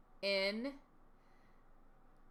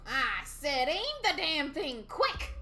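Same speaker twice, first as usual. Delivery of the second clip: panicked yelling; 9 semitones higher, 5 dB louder than usual. Acted. Panicked during attack, dog missing.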